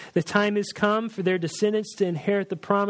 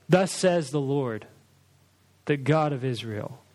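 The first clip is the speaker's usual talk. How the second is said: announcing; 3 semitones lower than usual. Shown as a demonstration. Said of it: "Just come in and just announce".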